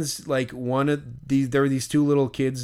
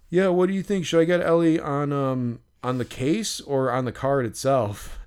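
a hint of a kid asking for advice; lightly voiced kid; 3 semitones higher than usual. Little kid asks where to get the autograph, lightly imitated. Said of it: "There was a little kid".

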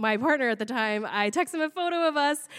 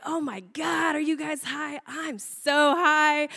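drawn-out, slightly raised awe; mock stoned wonder; 3 semitones higher, slower than usual. High friends marvel to each other on the floor, mock stoned wonder. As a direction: stretch the words as if blissfully high. Acting out friends tripping together.

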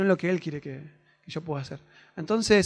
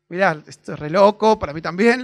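earnest loud address; 9 dB louder than usual. Retold or imitated. Retelling what he told the stranger.

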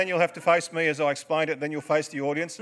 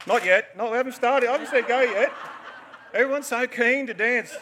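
laughing; 8 semitones higher than usual. Real, not acted. Dancers jump in too early.

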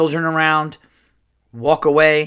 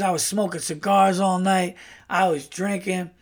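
higher-pitched brash uncle storyteller; lightly voiced brash uncle; Earl; 4 semitones higher than usual. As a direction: imitate a brash guy starting a drinking yarn. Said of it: "like, a very brash uncle".

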